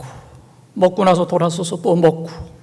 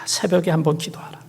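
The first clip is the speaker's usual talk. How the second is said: whispered command; 7 dB quieter than usual. Acted. God's voice urging prayer.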